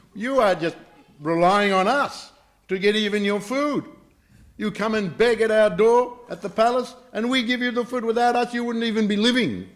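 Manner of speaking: high, loud, haughty tirade; acted anger. Princess to girl who begs at palace, loud angry tirade. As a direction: berate with scorn, pitched high throughout. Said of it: "got very angry".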